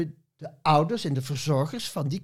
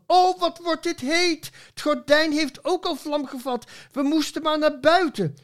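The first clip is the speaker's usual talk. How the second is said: much higher, mock-wailing complaint; wailing parson; 12 semitones higher, 3 dB louder than usual. Parson moaning as the curtains catch fire, high mock wail. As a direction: whine it like a fussy parson in the heat. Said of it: "die jammerde van".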